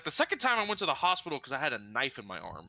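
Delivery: matter-of-fact, brisk retold deadpan; straight-faced calm. Manager casually explains his second hospital trip, straight-faced. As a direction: report it calmly, as if it were nothing. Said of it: "with such a straight face and so calm".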